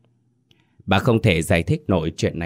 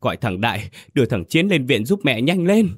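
broken, halting plea; 6 semitones higher than usual. Acted. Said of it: "nói đứt quãng".

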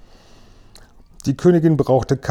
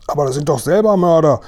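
raised, higher outraged cry; exclaiming; 6 semitones higher, 4 dB louder than usual. A narrator's reading. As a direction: protest loudly and high. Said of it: "rief der Oberkommandierende". (empörter Ausruf)

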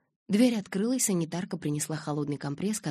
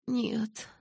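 groaning; 6 semitones higher than usual. A narrator's reading. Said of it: "застонала я".

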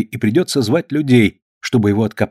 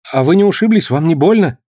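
worried concern; 6 semitones higher, 3 dB louder than usual. A narrator's reading. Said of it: "с беспокойством спросил Том".

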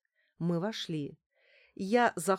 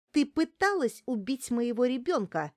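higher, loud, furious cry; shouting accusation; 5 semitones higher, 4 dB louder than usual. Acted. Larisa screams at the doctor who tried to kill her baby. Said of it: "закричала на неё Неделькина".

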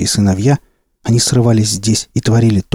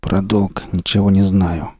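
hoarse; 2 semitones lower than usual. Acted. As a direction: rasp it out wearily. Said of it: "хрипло произнёс зверь".

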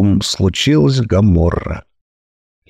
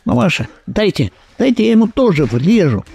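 eager pleading, higher; eager to hit; 8 semitones higher, faster than usual. Acted. Daughter begs her mother for a turn to hit him, eager. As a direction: beg to get a turn at hitting him. Нетания хочет тоже ударить.

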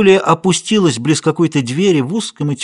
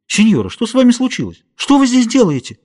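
concerned questioning; 10 semitones higher than usual. Acted. Paulita questions frightened stranger.

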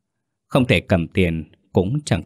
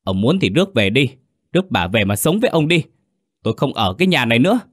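higher, fast, wife screaming in bitter rage; choked furious cry; 4 semitones higher, faster than usual. Acted. Wife screaming at husband during family fight, furious. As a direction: let the anger climb until she can't take it. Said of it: "Giọng thím Năm gào lên nghẹn uất".

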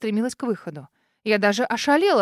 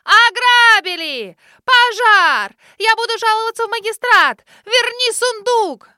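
much higher and louder, slow drawn-out wails; hysterical screaming; 11 semitones higher, 10 dB louder, slower than usual. Acted. Lady outside the gate screams to the street, hysterical. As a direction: wail for the whole street to hear. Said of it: "истошно закричала".

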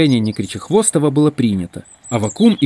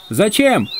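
high, stretched call back; shouted reply; 10 semitones higher than usual. A narrator's reading. Егор Егорыч answering the distant group, calling out. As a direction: shout a question over a distance. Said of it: "крикнул Егор Егорыч".

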